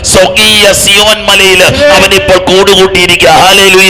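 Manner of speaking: loud, high-pitched sermon climax; impassioned preacher at full volume; full-force preaching. Acted. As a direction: preach it out loud, building to a hallelujah.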